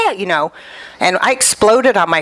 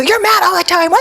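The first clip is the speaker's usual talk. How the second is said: mock whiny complaint; 10 semitones higher than usual. Retold complaint to husband.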